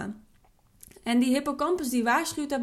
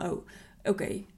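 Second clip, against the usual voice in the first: soft whisper; 4 semitones lower, 6 dB quieter than usual. Shown as a demonstration. Voicing calming inner thought.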